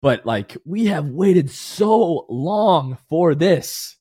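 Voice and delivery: holding back happy tears, voice sinking; teary, emotional. Real, not acted. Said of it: "I have tears in my eyes".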